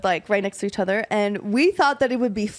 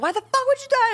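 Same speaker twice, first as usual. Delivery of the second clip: much higher, shrill imitated outburst of a crying sister; sister freaking out; 13 semitones higher than usual. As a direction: play the furious, sobbing sister, pitched way up. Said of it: "she's freaking out at me".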